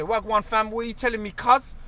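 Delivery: mock London street slang; london roadman accent.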